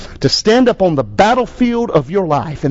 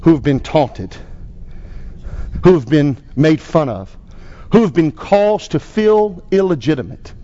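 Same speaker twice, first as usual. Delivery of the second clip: pastor's closing prayer. Acted. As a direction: lead the congregation in prayer.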